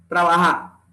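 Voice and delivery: TRABAJA with J as H, final R dropped; soft aspirated J. Shown as a demonstration. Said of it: "se pronuncia con una aspiración suave".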